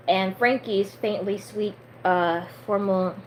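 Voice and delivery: lightly performed read-aloud; story narration. Acted.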